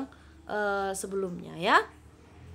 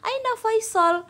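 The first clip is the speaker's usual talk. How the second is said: put-on higher questioning girl's voice; Jamila asking; 6 semitones higher than usual. Shown as a demonstration. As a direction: ask after the brother as Jamila. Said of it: "ditanya lagi nih sama si Jamila".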